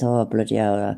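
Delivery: quoting an Irish mate in a mild Irish lilt; Irish accent. Retold or imitated. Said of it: "Irish accent".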